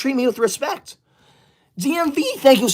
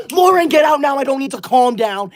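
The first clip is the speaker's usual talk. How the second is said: angry shout; 3 semitones higher than usual. Real, not acted. Streamer yelling at a commenter to get out, angry. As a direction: throw her out of the chat.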